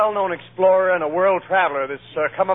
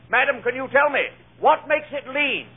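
lightly voiced lecturer, higher, slowing on the question; lecturing explorer; 6 semitones higher than usual. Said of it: "he's talking at a ladies' club".

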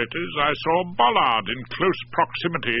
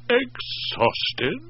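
higher, rising echo with a hint of doubt; mildly suspicious; 12 semitones higher than usual. A narrator's reading. Wife echoing the excuse, a little suspicious. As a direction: question the word exhausted. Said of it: "a little suspicious".

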